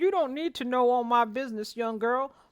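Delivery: put-on hillbilly voice. Retelling a story, voicing the man's reply to a young woman: Jethro voice. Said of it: "that was Jethro".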